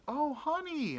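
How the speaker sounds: put-on high, pitying old-lady voice; imitated old lady. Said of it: "this ninety-year-old lady".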